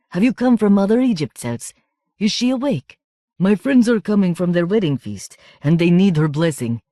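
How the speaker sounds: high, loud, tipsy whistling voice; a drunk reveller piping up high; drunk man, whistling high voice. Acted. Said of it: "He spoke in a whistling high voice".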